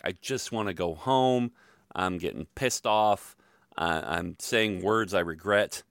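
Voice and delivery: slow, drawn-out complaint; mock upset. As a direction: act out being fed up, dragging the words. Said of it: "I'm getting more upset".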